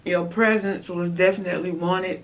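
muffled through covering hand; speaking while chewing food; talking with hand over mouth. Real, not acted. Seen 5: Hand covers mouth throughout while she talks mid-meal, plate before her.

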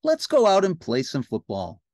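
loud cartoon playmate; Ernie. Ernie invites Bert outside, loud cartoon voice. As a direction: pitch it up and push it out loud. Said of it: "said Ernie".

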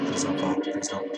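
whispered frightened pleading; scared horror game streamer. Real, not acted. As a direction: breathe the plea in fear.

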